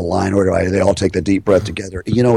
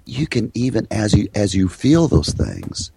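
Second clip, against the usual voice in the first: hypnotic calming talk; 3 semitones lower than usual. Shown as a demonstration. Hypnotic relaxation talk to patient.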